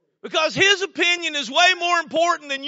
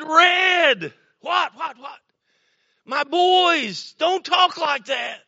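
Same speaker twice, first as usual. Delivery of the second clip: higher-pitched mock telling-off of a neighbor; mild acted scolding; 4 semitones higher, slower than usual. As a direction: retell a protective parent's rebuke, pitched up. Acted confronting of foul-mouthed neighbor.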